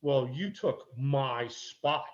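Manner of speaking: slow, entitled mock complaint; snippy lady. Lightly voiced parked woman defending her spot. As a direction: drag out a smug claim to the spot. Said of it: "She goes".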